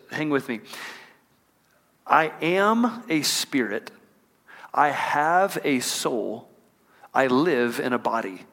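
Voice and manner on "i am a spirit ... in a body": slow, deliberate, each phrase weighed; slow measured creed. Shown as a demonstration. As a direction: lay out each line slowly like a creed. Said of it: "I had a mentor that would say it like this".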